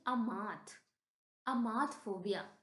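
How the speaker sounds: clearly pronounced "अमाथ", then "अमाथफोबिया"; teacher reading out "अमाथफोबिया" for learners; pronunciation demo. Shown as a demonstration. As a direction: model "अमाथ" with long middle "aa". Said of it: "इसको हम पढ़ेंगे".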